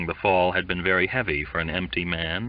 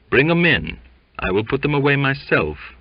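severe; 7 semitones higher, 4 dB louder than usual. Acted. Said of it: "answered James Waite with severity".

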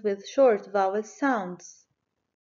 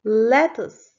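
Lettuce called out louder, clearly sounded; loud model word; 6 dB louder than usual. Shown as a demonstration. Teacher modelling the word for kids, loud. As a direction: call Lettuce out to the class. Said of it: "Let's clap our hands when you hear".

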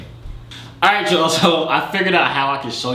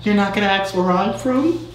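voice changer voice; 6 semitones higher than usual. Pretend. Voice changer prank on stranger.

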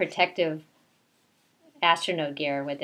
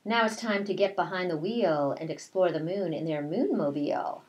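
put-on reading to children; 2 semitones higher than usual. A narrator's reading. Teacher reads rhyming picture book.

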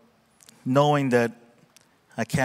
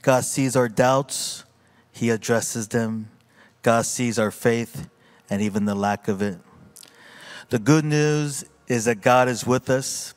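preaching. Acted. Pastor closing the sermon for the congregation, emphatic preaching. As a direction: lean into each God with conviction.

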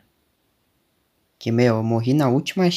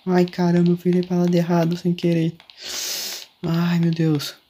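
flustered; 4 semitones higher than usual. Real, not acted. Turns the wrong way in panic.

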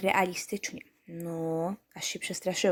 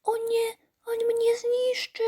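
very high, tiny voice fading to a slow whisper; a scared chick peeping from its egg; squeaky frightened baby-chick voice; trembling little chick; 13 semitones higher, slower than usual. Retold or imitated. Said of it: "jak takie małe kurczaczki w jajkach".

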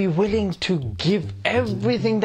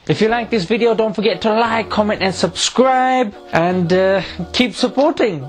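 excited outro; 5 dB louder than usual. Real, not acted. Loud outro after laughter.

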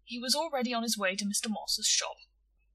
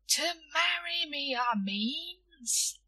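bashful; 7 semitones higher, much slower than usual. A narrator's reading. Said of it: "blushing slightly as he spoke".

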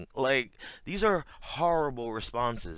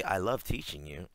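mock sweet line; 4 semitones lower than usual. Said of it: "you don't say".

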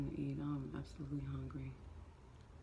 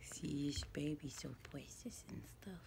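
whisper; 3 semitones lower, 7 dB quieter than usual. Real, not acted.

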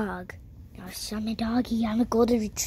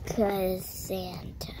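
whispering; 3 semitones lower, 6 dB quieter, much slower than usual. Real, not acted. Whispering aside.

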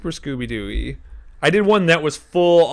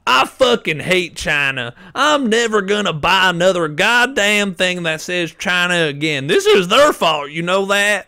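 higher, louder fake rant; mock angry caller; 7 semitones higher, 6 dB louder than usual. Coworker mocking an angry customer on the phone, ranting loud. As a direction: ham up a pissed-off customer complaining. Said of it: "making fun of this guy who called in and was pissed off".

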